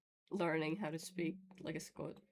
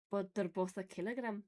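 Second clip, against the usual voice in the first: Scottish meme quote. Retold or imitated. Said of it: "the accent makes it so good".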